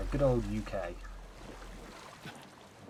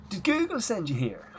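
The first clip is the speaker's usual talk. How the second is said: higher Irish guard's question, played as a running joke; mock Irish guard; 10 semitones higher than usual. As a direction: tease your partner with the Garda's line in Irish brogue. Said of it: "to just turn to the other one and go".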